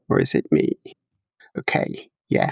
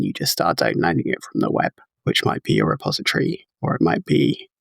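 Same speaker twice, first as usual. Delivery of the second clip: glitchy robotic audio; choppy robot voice; 7 semitones lower, faster than usual. Real, not acted. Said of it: "trailing off into robot voice".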